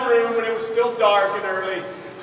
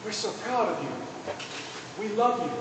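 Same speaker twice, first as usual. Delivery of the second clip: softer, quiet and heartfelt; tender repeat; 8 dB quieter than usual. Retold or imitated. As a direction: say it gently, like parents hugging their son. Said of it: "kept yelling those words over and over".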